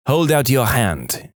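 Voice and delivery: slow, lightly French-Canadian command; measured order in a mild French-Canadian accent. Retold or imitated. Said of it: "Imagine a female French-Canadian sergeant with this accent".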